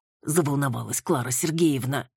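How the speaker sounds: plain reading voice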